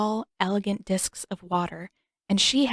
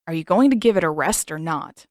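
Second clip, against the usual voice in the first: exasperated; 2 semitones lower, 7 dB louder than usual. Acted. Sokka pestering Katara.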